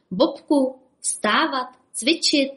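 high, sing-song wake-up call. Acted. Bob calling sleepy Bobek to exercise, calling out. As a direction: holler across to a sleeping friend. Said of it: "halekal na kamaráda".

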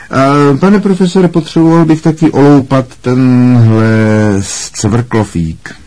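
high, mocking request to the teacher; malicious amusement. A narrator's reading. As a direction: start high and loud, full of spite, then ease down. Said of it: "hlasem plným zlomyslného smíchu". (zlomyslně, vysokým posměšným hlasem)

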